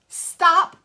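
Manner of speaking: one loud punched word; emphatic stop. Shown as a demonstration. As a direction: hit it like a command. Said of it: "and reframe that thing".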